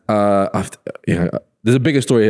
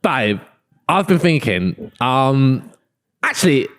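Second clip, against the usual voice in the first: tentative mock co-host voice; lightly voiced co-host, with hesitant pauses; imitating the co-host. Pitching role play to a partner as co-host, lightly imitated. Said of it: "I won't do the voice".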